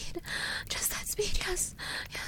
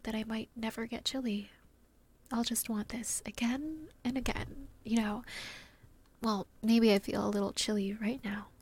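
cozy whisper. Acted. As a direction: murmur it close and cozy.

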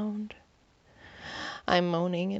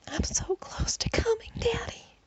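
desperate plea; 14 semitones higher than usual. A narrator's reading. Heroine near climax, pleading.

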